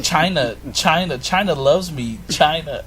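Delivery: Trump impression. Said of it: "he's all like".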